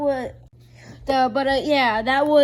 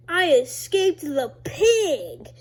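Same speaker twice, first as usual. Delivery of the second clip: laughing triumph; 5 semitones higher, 7 dB louder, slower than usual. Retold or imitated. Character triumphs in retold game.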